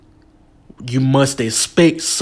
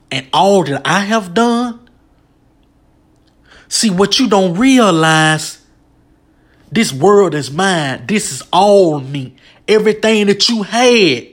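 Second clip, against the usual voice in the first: high, raised voice, God's thundering questions; preaching shout as God; 4 semitones higher than usual. Acted. Preacher voicing God rebuking Job, high raised shout. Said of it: "I was just screaming when I was quoting what God said".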